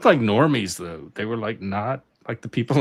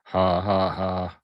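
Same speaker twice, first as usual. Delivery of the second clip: robot laugh. Pretend. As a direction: laugh like a clunky machine. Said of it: "whoever can do the best robot laugh".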